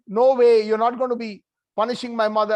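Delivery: a loud burst on no way, then rushing on fast; child Krishna stopping his father from punishing his mother; protesting child. Acted. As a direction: blurt it out quickly to stop his father.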